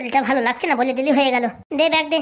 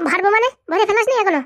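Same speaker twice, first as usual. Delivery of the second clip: higher-pitched incredulous questioning; surprised reproach; 5 semitones higher than usual. Acted. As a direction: demand why it isn't done yet. Uncle astonished form not yet filled.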